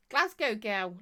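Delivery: put-on a light Glasgow accent on "Glasgow girl". Shown as a demonstration. Greeting the chat in a mild Glasgow accent. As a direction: put on a touch of Glaswegian. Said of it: "Listen to me with that accent".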